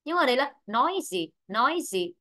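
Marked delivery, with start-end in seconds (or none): 0.7-1.3 "nói gì" as English noisy, stressed on the first syllable. Shown as a demonstration. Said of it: "trong ấm rơi vào âm tiết một". 1.5-2.1 "nói gì" as English noisy, weight on the first syllable; stress on first syllable. Shown as a demonstration. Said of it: "trong ấm rơi vào âm tiết một".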